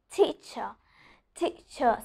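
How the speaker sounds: slow "teacher" with a forceful t; "teacher" with a pressed, released t; T with pressure. Shown as a demonstration. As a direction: push the first t of "teacher" off the gums. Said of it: "I'm pronouncing letter T with pressure".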